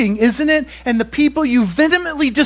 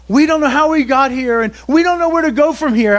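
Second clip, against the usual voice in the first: higher, louder, hurried pundit voice; lightly mocking politician voice; 4 semitones higher, 5 dB louder, faster than usual. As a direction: parody clueless politicians on the news. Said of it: "all the politicians".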